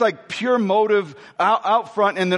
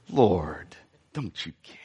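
much lower, much softer, timid plea; meek soft version; 13 semitones lower, 6 dB quieter, slower than usual. Shown as a demonstration. Preacher demos how Martha did not say it, meek and soft. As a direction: say it meekly, almost swallowed. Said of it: "Do you think she said it this way?".

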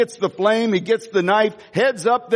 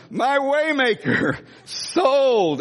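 higher, joyful cry of sold; jubilant shout; 6 semitones higher, much slower than usual. Real, not acted. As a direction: exclaim it high and glad.

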